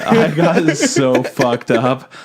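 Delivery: fighting back real tears; close to tears. Real, not acted. Podcaster admitting an anime's last line wrecked them, close to tears. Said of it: "my tears are, like".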